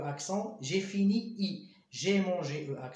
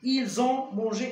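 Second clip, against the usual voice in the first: slow dictation; 3 semitones higher, 5 dB louder, much slower than usual. Shown as a demonstration. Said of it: "E accent".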